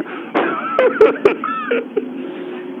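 very high, soft cackling; high wordless cackle. Acted. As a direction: let out a thin, high cackle. Wordless high sound mid-argument.

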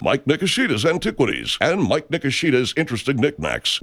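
local pitchman selling his own wares; self-announced huckster's spot; parody ad read. Acted. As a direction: deliver a homemade radio commercial, straight-talking sales patter. Performs a parody commercial.

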